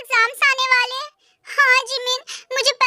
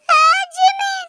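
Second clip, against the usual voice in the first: pained cry; 5 semitones higher, 4 dB louder, much slower than usual. Acted. Girl's mouth torn, crying out.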